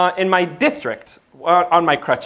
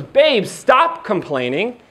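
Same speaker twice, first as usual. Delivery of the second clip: coach wife. Retold or imitated. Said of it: "Chelsea goes".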